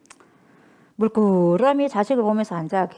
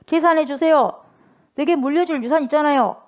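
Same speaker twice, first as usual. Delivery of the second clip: higher, loud and bold; brazen demand; 6 semitones higher, 5 dB louder than usual. Retold or imitated. Younger son boldly demanding his father settle the estate, loud. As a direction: demand the inheritance without shame. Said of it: "당당하게 옵니다".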